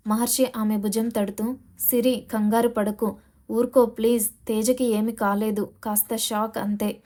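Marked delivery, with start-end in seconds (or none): 1.8-7.0 gently consoling. Acted. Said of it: "అంటూ అనునయించసాగాడు".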